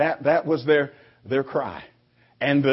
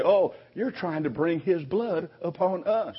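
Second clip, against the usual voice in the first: mock complaint; 3 semitones higher than usual. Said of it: "complain and say".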